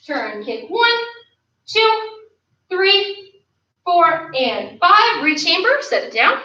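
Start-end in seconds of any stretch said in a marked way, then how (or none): 0.7-5.2 higher middle numbers, slow stretched finish; drill count. Real, not acted. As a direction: coach counting a hold beat by beat. Counting out a held kick.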